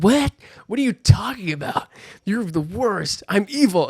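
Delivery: high, loud hammed-up villain voice; mock villain Jean. Jean turning on Logan, hammed-up high evil voice. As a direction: play the evil Jean, shrill and over the top. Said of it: "She's like".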